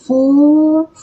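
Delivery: fulfill with a clear final L. Shown as a demonstration. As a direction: hold the L at the end of fulfill. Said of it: "a letra L no inglês tem som de L".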